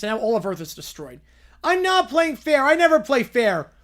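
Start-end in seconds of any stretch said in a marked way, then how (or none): 1.6-3.7 loud, slow, high taunt; villain gloating. Acted.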